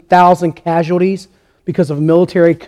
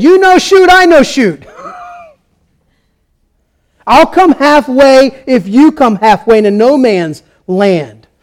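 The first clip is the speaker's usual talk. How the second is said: high, called-out line as a soldier; German soldier; 6 semitones higher, 4 dB louder than usual. Retold or imitated. German soldier offering a truce to the British, imitated calling out. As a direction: call it over to the enemy trench, starting high and easing down. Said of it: "a German soldier stood up and said".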